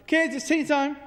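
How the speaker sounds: put-on high, loud call to children. Parent at the back door calls kids in, calling out. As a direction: call them in from a distance. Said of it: "calling the kids in from the garden".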